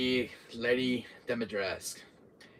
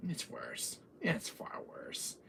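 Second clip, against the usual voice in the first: hushed; 6 semitones higher, 11 dB quieter, much slower than usual. Real, not acted. Slow hushed dread.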